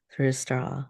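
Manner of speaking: soft breathy whisper of instruction. Acted. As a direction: breathe the words out like air through a straw. Breathing exercise, soft guidance.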